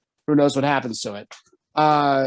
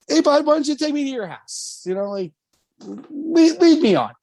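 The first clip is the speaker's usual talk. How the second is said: pitched-up, gentle urging; high coaxing kid voice; 10 semitones higher, 4 dB louder than usual. Retold or imitated. Asking the toddler to lead him home, high coaxing voice. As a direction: sweetly ask the little guy to show the way.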